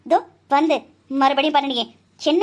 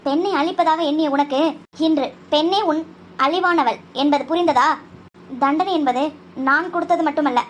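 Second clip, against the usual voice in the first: formal victory speech. Acted. Heroine declares triumph to the fallen villain, grandly formal. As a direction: proclaim triumph like a stage heroine.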